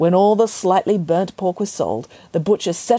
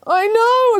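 agreeing; 6 dB louder than usual. Acted. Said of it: "agreed Grandmother".

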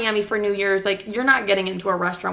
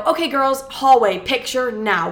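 bossy announcement; 4 semitones higher than usual. Retold or imitated. Calling the girls out to hallway.

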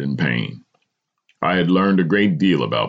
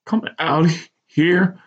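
a sudden higher outburst; blasted. A narrator's reading. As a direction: protest her plan sharply. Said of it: "I blasted".

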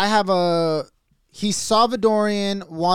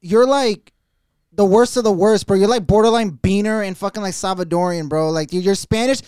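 retold scolding; 2 semitones higher, 6 dB louder than usual. Mocking his friend at clubs.

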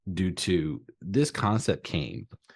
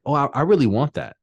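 mock eager wanting; 5 semitones higher, faster than usual. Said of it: "So it's like".

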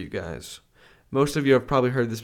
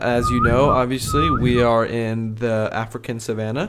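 peppy orientation leader. Acted. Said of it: "Christian will be the tour guide".

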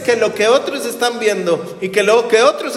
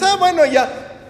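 weary giving in; 8 semitones higher than usual. Retold or imitated. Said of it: "Y ya dices".

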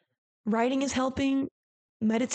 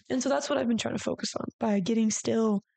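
normal talking voice

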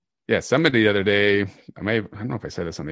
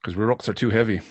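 put-on poor Irish accent; 3 semitones higher than usual. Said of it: "our poor attempt at an Irish accent".

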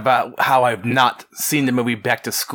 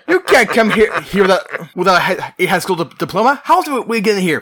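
stern official; 7 semitones higher, 4 dB louder than usual. Retold or imitated. Retelling the college official's line.

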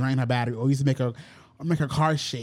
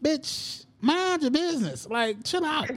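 higher exasperated retort; 12 semitones higher, slower than usual. Retold or imitated. Annoyed retort to mom.

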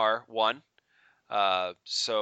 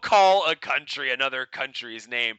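laughing warning; 6 semitones higher, 8 dB louder than usual. Real, not acted. Laughing while warning about countries.

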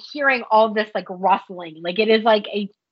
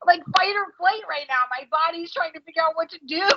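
mock terrified; 6 semitones higher than usual. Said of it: "I'm afraid to move".

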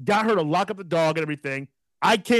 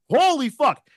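startled yell; 7 semitones higher than usual. Retold or imitated. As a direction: blurt it as the bird dives. Bird dive-bombs him.

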